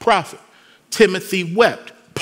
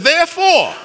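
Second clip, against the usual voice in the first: "Therefore" hit much higher and louder; stressed therefore; 11 semitones higher, 4 dB louder than usual. Shown as a demonstration. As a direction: announce "Therefore" like a turning point. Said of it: "returns to the shift word".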